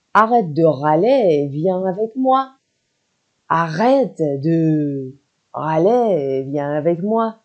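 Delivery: slow, stretched "râler"; emphatic, slow model of a scolding; drawn-out command. Shown as a demonstration. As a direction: draw out "Arrête de râler", rising on "moi". Teacher acts out the command, drawn out.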